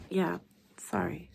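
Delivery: slow, whispered apology; sheepish whisper. Acted. Doctor apologising to her colleague, whispered. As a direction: mumble it, caught out.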